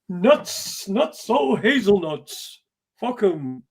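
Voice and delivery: slow, drawn-out "oh hazelnuts"; lightly voiced catchphrase; imitating Dinny. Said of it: "as Dinny would say".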